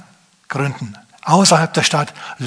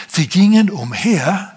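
high, slow, drawn-out stress on gingen; emphatic quote of verse; 4 semitones higher, slower than usual. Shown as a demonstration. Preacher stressing what the verse says, gingen slow and high. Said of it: "sondern da steht".

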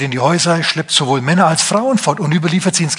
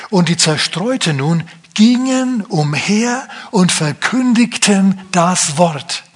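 slow, raised, solemn reading of the verse; solemn scripture reading; 4 semitones higher, much slower than usual. Shown as a demonstration. Preacher reading the verse to his congregation, slow and solemn. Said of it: "Ich lese mal weiter".

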